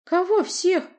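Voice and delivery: high, bewildered question; genuinely confused; puzzled. Acted. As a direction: princess not understanding who. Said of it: "недоумевающе проговорила княжна".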